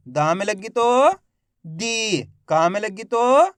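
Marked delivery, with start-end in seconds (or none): 1.6-2.2 "दी" with a long, held ee; drawn-out long vowel. Shown as a demonstration. Teacher modelling for learners to repeat, "दी" drawn out. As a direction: stretch the vowel in "दी". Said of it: "खींच खींच के पढ़ेंगे".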